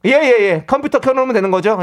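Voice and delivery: oblivious coworker talking up; too loud. Acted. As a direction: confirm the secret loudly, missing the hint. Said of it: "좀 조그맣게 얘기하고 있는 거죠?".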